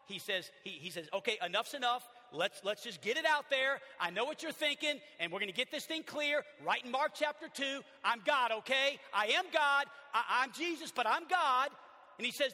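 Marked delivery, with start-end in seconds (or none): 1.1-11.7 loud, higher, emphatic declaration; bold Jesus. Acted. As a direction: lay it out plainly, no backing off. Preacher voices Jesus declaring himself.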